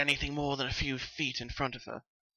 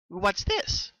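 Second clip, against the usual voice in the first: higher, puzzled; curious question; 6 semitones higher than usual. Acted. Pinkie pulling a strange device from the bag, higher and puzzled. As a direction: Pinkie wondering at a strange object. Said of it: "she asked as she pulled out".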